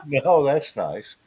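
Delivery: slow polite brush-off. Retold or imitated. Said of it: "That's all I'm gonna say".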